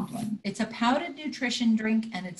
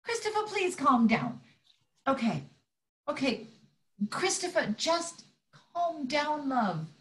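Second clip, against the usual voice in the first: soothing; 4 dB quieter than usual. Acted. Soothing screaming son.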